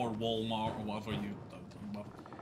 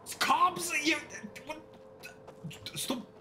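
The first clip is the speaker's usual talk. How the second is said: outraged shout; 13 semitones higher, slower than usual. Real, not acted. Arguing with the chat about food, shouting in outrage. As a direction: defend "carbs" like it's a personal insult.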